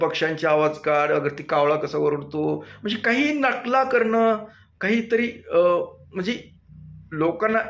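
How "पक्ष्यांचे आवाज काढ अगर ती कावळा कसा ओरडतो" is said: ordinary delivery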